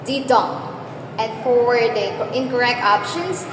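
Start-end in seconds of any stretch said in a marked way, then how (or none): 0.0-0.6 "didong" with a light di and a weighty dong; stress on second syllable. Shown as a demonstration. Teacher sounding out an iamb for the class, stress on the end of "didong". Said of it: "Unstressed syllable followed by stressed syllable".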